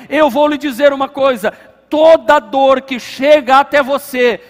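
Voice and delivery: forceful, insistent pulpit delivery; impassioned preaching. Real, not acted. Pastor assuring the congregation God shares every pain, impassioned preaching. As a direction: drive each repeated phrase home to the congregation.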